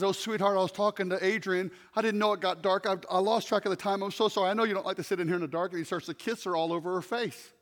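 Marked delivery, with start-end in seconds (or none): 0.0-5.7 soft, hushed tenderness; quoting husband softly to comatose wife; tender apology. Retold or imitated. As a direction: whisper it to a sick wife. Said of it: "turns on the light and says".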